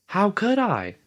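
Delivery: high indignant cry. Acted. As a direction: cry out, wronged. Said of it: "cried Piggy indignantly".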